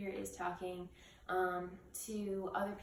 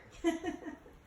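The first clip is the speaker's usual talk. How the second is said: short, higher-pitched chuckle; brief laugh; 9 semitones higher than usual. Real, not acted. Speaker breaking off mid-monologue, brief real laugh. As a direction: let a quick giggle slip out.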